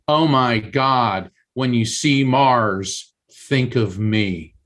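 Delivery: slow, hushed awe at the omen; awed family. Retold or imitated. Family recalls the spirit's message about Mars, slow awe. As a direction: let the realization land slowly, in wonder. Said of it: "We all looked at each other and said".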